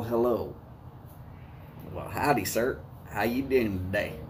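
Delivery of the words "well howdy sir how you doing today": tip your hat with a Southern howdy; southern accent. Acted. Greeting viewer Boris informally, light Southern accent. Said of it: "I can throw that southern accent in there".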